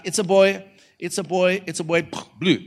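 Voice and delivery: high, repeated cheering call; excited anticipation. Retold or imitated. Preacher watching the reveal video, high and expectant.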